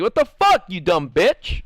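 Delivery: cartoon shriek of insult; squeaky insult. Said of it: "I'll be like".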